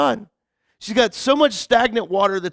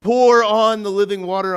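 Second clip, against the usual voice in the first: hammed-up churchy gushing, a little louder; mock worship gush; 5 dB louder than usual. Poking fun at American Christians who over-spiritualize, mock worship gush. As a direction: parody of an overeager believer. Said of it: "we overly spiritualize it right away".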